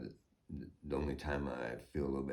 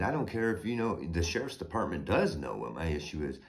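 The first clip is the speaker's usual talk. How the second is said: heated retort; 2 semitones higher than usual. Retold or imitated. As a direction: fire it back hard. Retold tirade at deputy.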